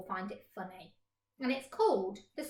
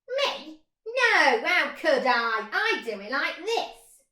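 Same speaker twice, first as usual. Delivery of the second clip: higher, bleating goat voice; 5 semitones higher, 8 dB louder, slower than usual. Acted. Goat answering the mole, high and bleating. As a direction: bleat the words.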